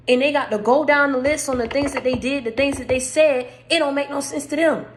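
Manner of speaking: hoarse, strained preaching voice; losing voice. Real, not acted. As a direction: voice going hoarse from shouting. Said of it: "You see I'm losing my voice?".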